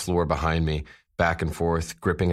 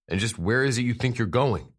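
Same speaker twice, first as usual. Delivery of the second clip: demanding; 7 semitones higher, 3 dB louder than usual. Acted. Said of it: "Z demanded".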